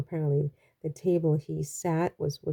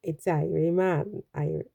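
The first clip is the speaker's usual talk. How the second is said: attempted Jamaican accent. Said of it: "how do you say?".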